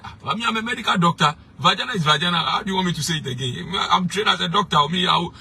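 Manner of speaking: high indignant impression of a bishop; imitating the bishop. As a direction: squeak out the bishop's defence indignantly. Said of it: "And he said".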